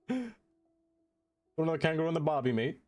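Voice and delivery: hammed-up Aussie cliché, ending on "mate"; Australian accent. Streamer reads chat's line in a mock Australian accent. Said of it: "You throw another kangaroo to the party".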